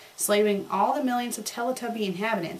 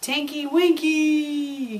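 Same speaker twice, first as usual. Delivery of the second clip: high, slow, drawn-out anguished call; crying out; 6 semitones higher, 4 dB louder, much slower than usual. A narrator's reading. The Teletubbies call their lost brother, crying out. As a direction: wail his name across the rubble. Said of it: "cried the three Teletubbies".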